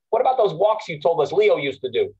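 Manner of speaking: put-on lightly done New York cabbie accent; New York cab driver accent. Student asking about Leo's walks, mild New York cab driver accent. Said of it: "that's why I'm doing this accent".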